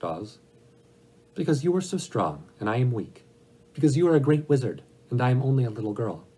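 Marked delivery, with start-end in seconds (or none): 1.3-6.2 higher-pitched little girl, lightly voiced; a hint of a humble child appealing to someone powerful; Dorothy.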